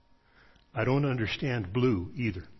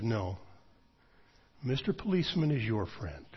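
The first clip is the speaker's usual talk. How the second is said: dead serious; 6 dB quieter than usual. Retold or imitated. Friend correcting him gravely, quiet and serious. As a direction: answer flatly with total seriousness. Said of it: "serious as a heart attack".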